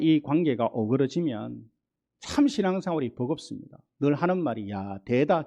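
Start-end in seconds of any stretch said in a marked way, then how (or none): 4.7-5.5 sighing Gyeongsang dialect complaint. Retold or imitated. A weary believer sighs in Gyeongsang dialect. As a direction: groan it the Gyeongsang way. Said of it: "경상도 말로".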